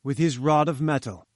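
a hint of a haughty scientist, lofty; lightly voiced pompous professor. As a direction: read it like a grand, self-important professor. Challenger speaking, pompous.

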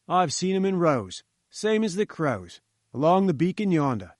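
a hint of a gruff guard at the gate; gatekeeper. Gatekeeper waves Malone's car through, lightly voiced guard. Gatekeeper gossips about reporters.

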